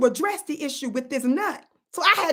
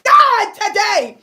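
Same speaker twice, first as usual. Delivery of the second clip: much louder and higher, amazed; loud exclamation; 9 semitones higher, 12 dB louder, much slower than usual. Real, not acted. Vlogger marvelling to viewers, loud exclamation. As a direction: cry it out in wonder.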